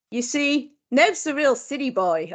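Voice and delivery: put-on slight Australian accent creeping in; lightly Australian-voiced film quote; a bit Australian. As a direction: read the quote with a touch of Australian. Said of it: "Oh, we are doing a bit Australian".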